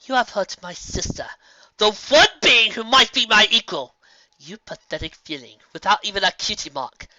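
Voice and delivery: loud, high, slowing furious shout; enraged tirade. A narrator's reading. Nightmare Moon rages at the filly, loud tearful fury. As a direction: rage and grief together.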